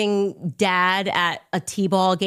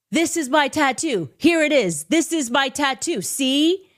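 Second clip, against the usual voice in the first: higher, mouth-distorted voice with lip pulled down; lip-drooped tattoo show; 7 semitones higher than usual. Retold or imitated. Ex-boyfriend shows his lip tattoo, lip-drooped mock voice. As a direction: talk with your bottom lip dropped. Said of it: "drops his bottom lip like this".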